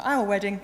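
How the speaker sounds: self-correction, leaning on "our"; stress on OUR. Real, not acted. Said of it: "I always say my wedding".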